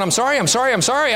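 put-on a small boy repeating sorry as fast as he can; frantic little boy pleading. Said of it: "'Cause I'm going".

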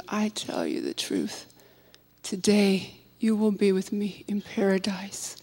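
soft whisper of comfort; whispered promise. A narrator's reading. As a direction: breathe it gently to the dying man. Jesus's quiet promise.

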